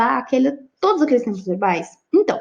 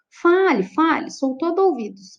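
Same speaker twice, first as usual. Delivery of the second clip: "Fale, fale" stressed, first one higher and stronger; emphatic repetition; 4 semitones higher than usual. Shown as a demonstration. Teacher demonstrating a reinforced imperative, emphatic repetition. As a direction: punch the repeated "Fale" for emphasis. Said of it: "Eu tô dando ênfase".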